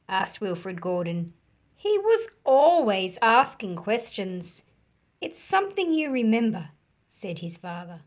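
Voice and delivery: story narration. A narrator's reading. Teacher reading a picture book to children, animated storytelling. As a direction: bring the picture book alive for kids.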